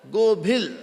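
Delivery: "Gobhil" said clearly with the final l; correct name pronunciation. Shown as a demonstration. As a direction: say "Gobhil" in two clear syllables, closing on the l. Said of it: "It is".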